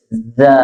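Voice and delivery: "Za" begun with a long buzzing hiss. Shown as a demonstration. Teacher showing the whistling letters, hissed "Za". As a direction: let the z of "Za" hiss before the vowel. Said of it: "ada desis".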